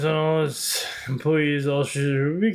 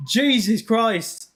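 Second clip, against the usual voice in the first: exasperated; 5 semitones higher, much slower than usual. Real, not acted. Model keeps glitching.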